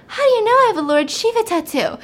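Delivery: high, loud, mock astonishment; astonished demand. Lottery lady questioning blind patient, acted astonishment.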